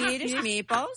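put-on lilting Swedish accent, laughing. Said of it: "What does a Swedish accent sound like".

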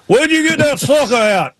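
very high imitated country question; Ward Burton. Retelling driver's live TV interruption, high hammed-up imitation. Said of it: "It's Ward Burton".

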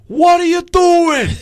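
exaggerated New York accent, drawn out. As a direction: stretch it out like a caricatured New Yorker. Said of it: "I'm thinking of New York".

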